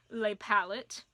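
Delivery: "les palettes" said slowly in a jokey French accent; mock French. Real, not acted. Vlogger jokingly slipping into French for "les palettes". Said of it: "I tried speaking French".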